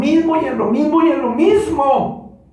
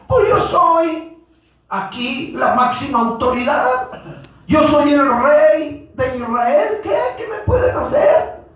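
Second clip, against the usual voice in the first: arrogant king; 5 semitones higher than usual. Retold or imitated. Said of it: "Él pensó que todo estaba bien".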